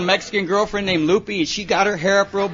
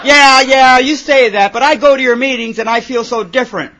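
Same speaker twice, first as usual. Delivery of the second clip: put-on whiny teen complaint; 5 semitones higher, 8 dB louder than usual. Sponsored kid complains.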